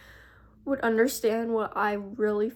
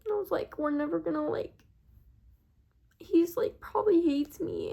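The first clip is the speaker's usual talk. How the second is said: retold crying; 9 semitones higher than usual. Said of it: "I started breaking down and crying".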